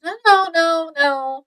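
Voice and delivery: mock-pleading objection; pleading protest. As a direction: hurry to take it back, pitch lifted then easing. She protests as he dismisses her.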